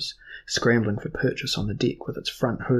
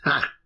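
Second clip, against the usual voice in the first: bitter laugh; 4 semitones higher than usual. Acted. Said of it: "a laugh of profound bitterness".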